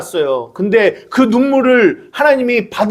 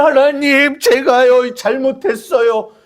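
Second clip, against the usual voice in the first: 흉내 낸 울먹이는 기도; 5 semitones higher than usual. Retold or imitated. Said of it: "막 울어요".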